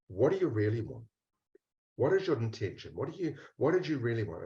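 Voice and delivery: soft, hushed questions to a hidden part; gentle quiet asking. Pretend. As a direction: ask softly, as if coaxing a shy child out. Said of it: "And just go".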